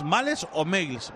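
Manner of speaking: "Males" as spelled against English-style "Mails"; two pronunciations contrasted. Shown as a demonstration. Commentator asks colleague which name is right, contrasting pronunciations. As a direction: say "Males" then "Mails", slowly, as alternatives. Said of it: "¿cómo es?".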